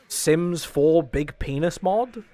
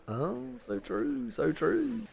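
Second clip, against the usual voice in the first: mock agreement; 9 semitones higher, 9 dB quieter, slower than usual. Mock agreement with a chat message.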